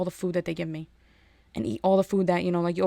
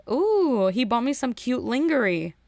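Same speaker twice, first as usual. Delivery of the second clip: mock girly gush; 4 semitones higher, slower than usual. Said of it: "the girl was like".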